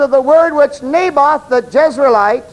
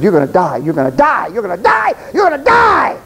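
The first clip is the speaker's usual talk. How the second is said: hammed-up curse; 4 semitones lower than usual. Jezebel cursing the fleeing prophet.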